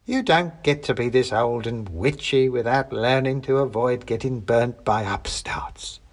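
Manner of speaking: a knowing crone, dropping to a hiss at the end; sly old witch. Acted.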